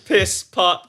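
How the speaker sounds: laughing through the name; laughing reply. Retold or imitated. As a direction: giggle it out. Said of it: "Say the line, Bar".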